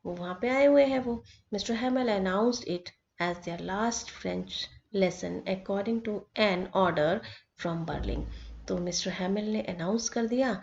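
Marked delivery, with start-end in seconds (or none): 1.5-8.2 reads the English line out slowly, word by word; slow text reading. Acted. Teacher reads the story text to students, slow and deliberate. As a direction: read each phrase slowly for the class.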